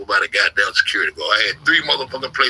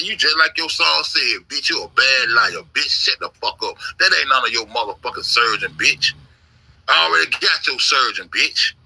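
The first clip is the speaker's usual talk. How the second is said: mocking taunt. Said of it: "That's how I used to be talking".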